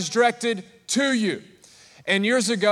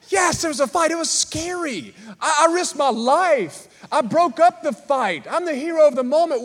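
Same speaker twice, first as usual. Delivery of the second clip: mock indignation; 6 semitones higher than usual. Mock indignant hero boast.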